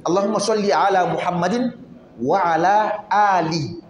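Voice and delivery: long drawn "wa ala ali" with stretched vowels; correct recitation. Shown as a demonstration. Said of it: "Parmi nous, il y en a qui vont dire".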